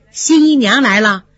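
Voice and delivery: a touch of teasing in the voice; teasing laugh. Acted. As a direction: tease your friend lightly. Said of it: "便笑着说，".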